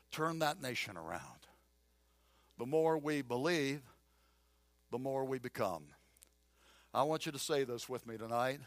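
soft, low, earnest preaching; hushed sincerity. Real, not acted. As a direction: bring it down and speak tenderly to the congregation. Hushed, earnest close of sermon point.

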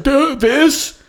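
high-pitched frantic question; high voice, mock panic; imitated terrified son. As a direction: mimic a scared kid asking. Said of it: "he's just terrified".

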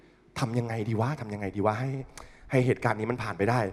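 hushed worried self-talk; inner panic murmur. Retold or imitated. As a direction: mutter it to yourself in dread. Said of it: "ยืนคิด".

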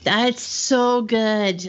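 slow, savoring after a sip; enjoying the drink, drawn out; while sipping a drink. Real, not acted. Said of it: "I'm drinking from my new Gone with the Bushes".

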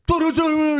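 high, loud wordless tirade; imitated shouting on one high note; mock yelling. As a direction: yell gibberish like an irate customer. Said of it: "he starts yelling at him".

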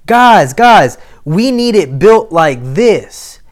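calling the team urgently; guys, guys, build it this way; master's urgent call. Retold or imitated. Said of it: "And he's going".

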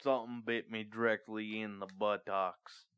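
lightly put-on Alabama accent; Forrest Gump. Obliging friends with a film impression, mild Alabama accent. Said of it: "I wish he did a Forrest Gump".

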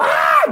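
a long drawn-out imitated crowd scream; crowd scream, slowed. The studio audience screams as the vase breaks, drawn out. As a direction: stretch out a mock gasp of horror.

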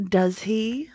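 a doubting lilt on "Does he?"; delicate disbelief. Acted. Snape needling Bellatrix, with delicate disbelief. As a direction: let the doubt curl up into the question. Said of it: "his voice delicately inflected to suggest his disbelief".

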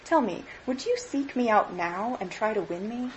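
understated, mild and steady; mild but steady. Acted. Girl asking Scrooge, mild but steady. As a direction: ask it mildly but firmly. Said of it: "looking mildly but with steadiness".

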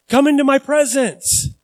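relaxed friendly call; casual invitation. Pretend. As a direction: toss it off like a friend calling you over. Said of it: "That's how I would say it".

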